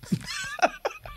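high burst of laughter. Real, not acted. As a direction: squeal with laughter. Laughing at the story. (riso agudo)

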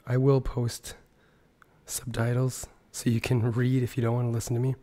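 hoarse, half-whispered sick voice; lost voice. Real, not acted. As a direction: talk through a sore throat with little voice. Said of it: "I'm sick and I've lost my voice".

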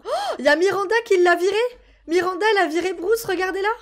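loud, high, thrilled announcing; gleeful play-by-play; excited cheering. Real, not acted. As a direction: cheer on the granny's victory. Neighbour chased away.

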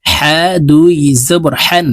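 হান with হা from the middle of the throat; throat letter ha. Shown as a demonstration. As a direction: breathe হা out from mid-throat in হান. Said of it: "হলকের মধ্যখান থেকে উচ্চারণ করতে হবে". (হলকের মধ্যখান থেকে হা উচ্চারণ)

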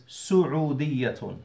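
"سعودية" begun with su-, not sa-; dhamma on the sin. Shown as a demonstration. Teacher giving the right form after a mistake, "سعودية" with su- first. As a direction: say "سعودية" as su-'u-diyatun, the first u clear. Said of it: "they pronounce the sin with a fatha".

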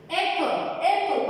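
APPLE said slowly, opening on a clear vowel; pronunciation demo. Shown as a demonstration. Teacher showing students why "apple" takes "an", slow pronunciation demo. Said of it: "Bakın telaffuz ederken apple dediğim için".

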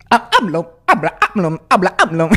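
"amlo" started with a cracked, repeated vowel; stutter-crack into the name; scratch break. Shown as a demonstration. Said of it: "Con cualquier nombre".

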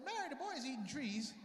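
flustered dad. Retold or imitated. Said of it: "My father's like".

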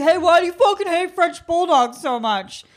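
imitating a stranger. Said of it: "He's like".

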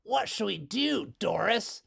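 hint of a young boy; other boy. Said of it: "asked the other boy".

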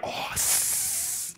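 long voiceless demon hiss; imitated hissing; mock hiss. Mimicking an attack that didn't happen.

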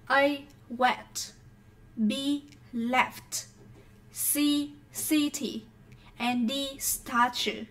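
each option, "wet", "left", "city", "statue", said separately and clearly; model pronunciation. Shown as a demonstration. Teacher pronounces the quiz words for students, careful model pronunciation. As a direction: read out the letters and words with careful gaps. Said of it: "I will pronounce all these words".

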